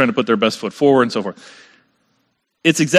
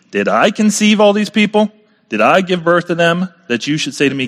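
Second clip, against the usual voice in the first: higher, exasperated retelling of Moses; frustrated outcry; 5 semitones higher than usual. Retold or imitated. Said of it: "He's super frustrated".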